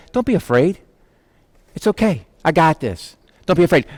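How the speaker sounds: softly voiced, calm comfort; imitated tender reassurance; gentle reassurance. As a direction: quietly settle someone who is frightened. Lord reassuring a scared Paul.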